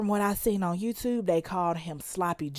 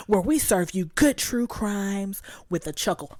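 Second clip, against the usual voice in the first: ordinary talk, nothing marked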